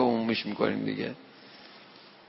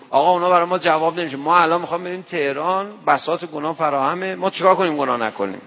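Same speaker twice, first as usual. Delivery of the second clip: fast, loud, urgent pleading; insistent plea; 3 semitones higher, 3 dB louder than usual. Retold or imitated. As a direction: rush the words out, desperate. Young man insisting, fast and loud.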